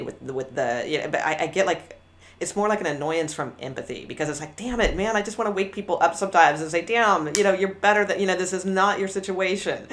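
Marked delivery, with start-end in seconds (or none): 4.6-9.9 frustrated tough love. Retold or imitated. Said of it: "that kind of tone of voice comes from".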